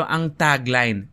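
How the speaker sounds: slow Filipino-accented "tagline"; Pinoy pronunciation. Shown as a demonstration. Host demonstrating the local way, Filipino accent. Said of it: "the way that Pinoy say it".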